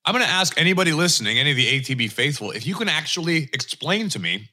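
talking with a mouthful of snack bar; words chewed around food; chewing noisily. Real, not acted. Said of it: "Sorry, I'm eating the rest of my score bar".

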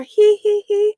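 high, loud villain giggle; sinister giggle. Acted. Mock sinister giggle after joke.

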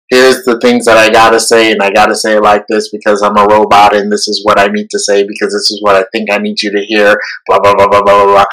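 stiff robot voice reciting lines. Retold or imitated. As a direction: speak like a rehearsed robot. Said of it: "That was my robot voice".

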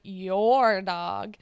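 "your dog" with "your" pushed; stress on your dog. Retold or imitated. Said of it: "very specifically emphasizes the word".

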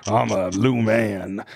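a hint of an indignant socialite; mock angry Luann. Luann getting mad at the other wives, in a lightly put-on voice. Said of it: "Luann's getting more mad".

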